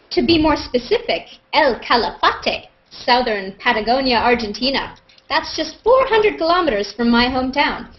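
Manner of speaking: hint of an over-keen fan's voice; reading a fan comment aloud. Shown as a demonstration. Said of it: "the mother of all amazing Google Plus comments".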